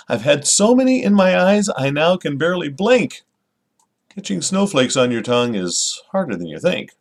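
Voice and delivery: lively, expressive poem recital; storytelling lilt on a children's poem; poem reading. Acted. Reads the poem naturally.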